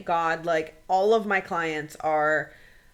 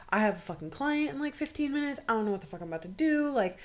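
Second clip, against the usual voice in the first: mild mock sobbing panic, stumbling over words; retold hysteria; 2 semitones higher, 3 dB quieter, faster than usual. Storyteller on the phone to best friend, mildly hysterical retelling. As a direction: act out helpless fluster, stuttering at the end. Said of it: "Like, I'm hysterical".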